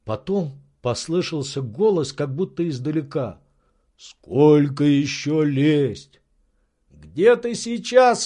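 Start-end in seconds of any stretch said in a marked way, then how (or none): 4.0-6.2 slow, carefully drawn servant's call; old servant up a tree. Acted. Servant calling down to his master, slow. 6.9-8.2 high, slow, eager master's call; Legrand's eager voice. Acted. Legrand calling up to his servant, high and eager. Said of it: "спросил Легран".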